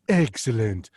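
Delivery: quick throwaway cartoon villain catchphrase; Mister Burns. Mocks fifty-impressions-a-minute acts, hurried cartoon impression. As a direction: lightly mimic the cartoon boss's drawn-out word. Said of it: "you know, Mister Burns".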